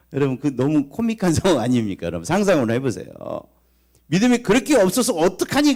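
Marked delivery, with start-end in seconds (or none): 4.1-5.7 higher, louder mock scolding of the disciples; Jesus rebuking frightened disciples mid-storm, loud scolding. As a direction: chide them like a fed-up teacher.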